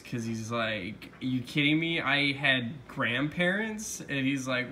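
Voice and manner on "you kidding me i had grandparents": retold upset kid, pitched up; mock incredulous, slightly higher; upset disbelief. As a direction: act out a mildly indignant, stretched-out question. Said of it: "Steven gets really upset at this".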